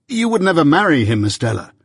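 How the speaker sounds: desperate plea. A narrator's reading.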